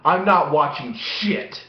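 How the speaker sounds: slow, emphatic mock firmness; setting her straight. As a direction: lay it down slowly, word by word. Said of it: "let me get something straight right now".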